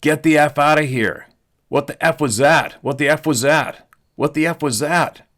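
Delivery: high, loud panicked yell. Retold or imitated. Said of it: "he was yelling".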